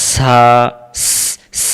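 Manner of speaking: সা, স, স with a sharp sibilant s; wrong hissed s. Shown as a demonstration. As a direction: hiss the s as in "see". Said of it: "এই শব্দটা না আসে".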